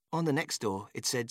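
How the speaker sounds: ordinary delivery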